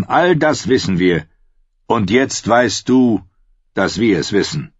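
a hint of a commanding king, pressing on; a wildling king showing Jon what he knows; Mance, lightly voiced.

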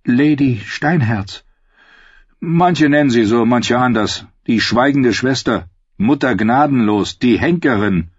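lightly voiced storybook character; solemn character voice. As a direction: recite the titles with weight. Girl naming the lady's titles.

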